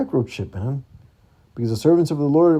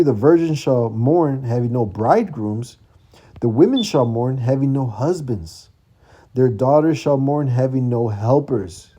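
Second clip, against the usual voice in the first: slow, weighty reading of the verse; solemn scripture reading. Acted. Preacher reading verse thirty-two to the brothers, slow and solemn. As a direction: let each clause land slowly.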